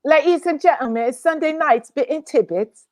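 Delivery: amateur Cockney show announcement; mock Cockney welcome; imitated Cockney. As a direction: copy the London announcer's accent. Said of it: "in Cockney".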